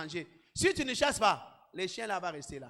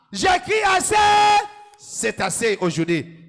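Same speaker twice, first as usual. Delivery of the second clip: shouted declaration; 10 semitones higher, 11 dB louder than usual. Shown as a demonstration. Pastor shows the church how to shout enough, loud. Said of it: "Tu dois crier assez".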